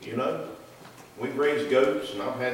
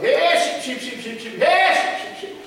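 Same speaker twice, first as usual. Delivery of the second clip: high, loud holler calling the flock; calling sheep; 14 semitones higher, 8 dB louder than usual. Retold or imitated. Calling the sheep across the pasture, a hollered call. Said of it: "I had to go out there and holler".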